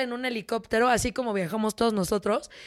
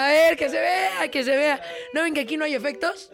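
milk it for the crowd; demanding; 3 semitones higher than usual. Real, not acted. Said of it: "Necesito su música triste".

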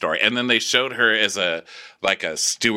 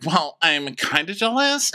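mock jealous voice; 9 semitones higher than usual. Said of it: "Oriana's like".

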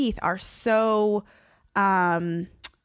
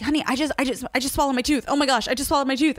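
fast, higher, tumbling mock panic; panicked babbling; 5 semitones higher, faster than usual. Telling her calm husband she swallowed the tooth, fast mock panic. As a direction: rush the words like a retold freak-out. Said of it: "And I start freaking out".

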